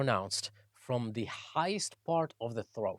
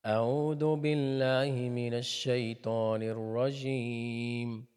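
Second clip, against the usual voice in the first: Quran recitation; faster than usual. Acted.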